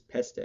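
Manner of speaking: Peste in two syllables, "PES-tay"; German-style pronunciation. Shown as a demonstration. Speaker explaining his slip, Peste as German-style "pestay". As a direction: sound the final e of Peste as "ay". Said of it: "more of a German pronunciation".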